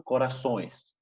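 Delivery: corazones said "corasois", nasal ending; nasal -ões plural. Shown as a demonstration. Teacher models Portuguese plural, corazones ending in nasal "õis". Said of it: "se le agrega E S".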